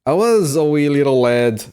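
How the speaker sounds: put-on jokey British accent for a childhood story; British idiot impression. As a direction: ham up a silly British accent. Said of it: "That's my one British idiot impression".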